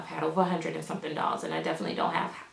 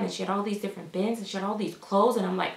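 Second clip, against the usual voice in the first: ordinary talk, nothing marked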